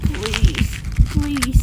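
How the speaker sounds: loud falling pleas; desperate shouted plea. Acted. Kid shouts pleas as the transformation hits.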